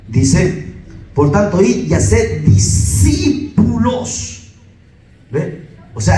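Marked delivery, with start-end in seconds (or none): 1.1-4.5 "discípulos" stretched syllable by syllable, high; slow, raised preacher's delivery, hammering "discípulos"; emphatic scripture quote. Real, not acted. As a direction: draw out "discípulos" slowly and pitch it up. Quoting scripture emphatically to congregation.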